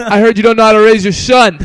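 loud laughing mock insult; snarky parent, laughing through it.

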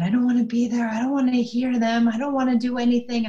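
put-on upset child. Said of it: "get really upset".

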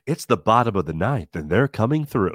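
a lightly voiced low radio host; imitating the radio DJ. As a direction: drop into the movie's radio voice. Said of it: "What's the one with, before the baseball gang?".

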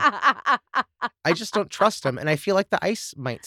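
laughing. Real, not acted. Admitting distrust of fridge ice, laughing slowly. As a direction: laugh through the words.

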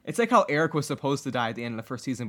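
usual speaking voice

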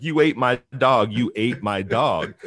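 mock-furious, hammering the charge home; angry accusation. Dog owner accusing the dog man, mildly mock-angry. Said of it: "Alsop gets very angry and he starts accusing".

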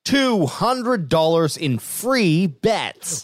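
drawn-out slow promo line; slow ad emphasis. Acted. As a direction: stretch it like a big prize. Co-host finishes ad line.

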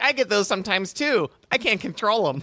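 put-on high, earnest child voice; confiding kid. Kid sharing his tremors with dog, earnest. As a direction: confide like a dorky little boy.

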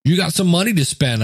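tempting inner voice. Acted. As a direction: coax like a little voice of temptation. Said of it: "there was a thing in my voice like".

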